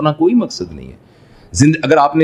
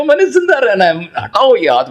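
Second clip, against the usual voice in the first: imitated scream; 8 semitones higher than usual. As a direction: act out a desperate cry without full volume. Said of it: "ایک ایک خلیہ چیخ کے کہے گا". (اونچے سُر میں نقلی چیخ)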